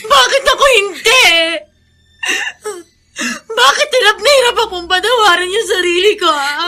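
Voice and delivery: tearful, rising cry; sobbing question. Acted. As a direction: break down in self-blame. Breaking down in tears.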